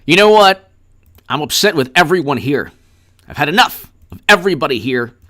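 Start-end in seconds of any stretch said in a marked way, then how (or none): 0.1-3.9 mock outburst.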